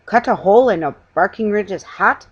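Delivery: aghast at the idea; indignant exclamation. Acted. Salesman appalled at cutting a hat, indignant outburst. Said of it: "he exclaimed".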